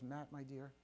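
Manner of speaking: softly imitating a calm wife; hushed, controlled endearment; calm retold address. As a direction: say it quietly and evenly, as her. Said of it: "She dangles keys very calmly".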